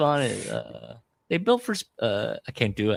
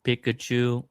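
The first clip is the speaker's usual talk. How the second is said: Trump impression; much slower than usual. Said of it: "You think my Trump sounds like Quimby".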